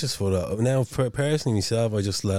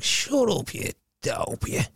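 retold snapping; 11 semitones higher, slower than usual. Woman silencing the man in the car, mock snappy. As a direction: mimic her dismissive put-down.

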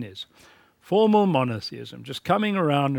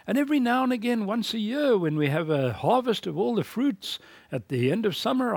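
higher, lightly voiced Cain bargaining with God; a hint of a wheedling Cain, pitched up; Cain pleading; 5 semitones higher than usual. Preacher imagining Cain bargaining with God, higher and lightly pleading. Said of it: "Cain might have said to God".

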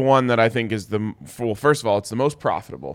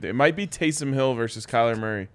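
losing voice. Real, not acted. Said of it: "I feel like I'm losing my voice".

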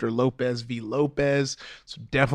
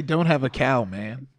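Bart Simpson; slower than usual. Retold or imitated.

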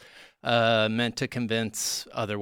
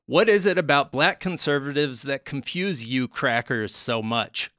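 louder, indignant shout; mock indignant; 4 semitones higher, 5 dB louder than usual. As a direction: proclaim it indignantly. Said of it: "his tweets include such gems as".

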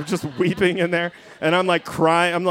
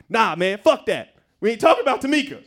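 mildly worked-up audition anger; hammed-up indignant refusal, rising in pitch; acted mad; 4 semitones higher than usual. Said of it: "I'm all mad".

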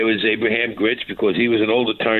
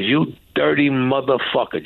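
slow contemptuous insult; 2 semitones higher than usual. Retold or imitated. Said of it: "Just like that".

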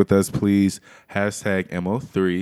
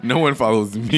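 laughing; 3 semitones higher, 4 dB louder than usual. Real, not acted. Laughing denial.

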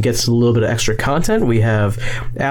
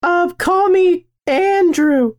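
high, drawn-out falsetto; slow, coy pretend-girl introduction; put-on girl voice; slower than usual. Giving co-host a name in a girl voice. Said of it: "I'm a girl now".

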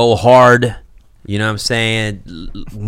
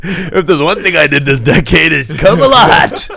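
laughing; 3 semitones higher, 5 dB louder than usual. Real, not acted. Joking innuendo, laughing.

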